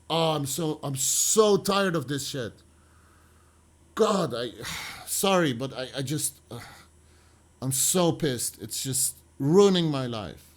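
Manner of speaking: fed up with her husband; mild mock rant of a tired wife; exasperated venting. Wendy venting about her husband.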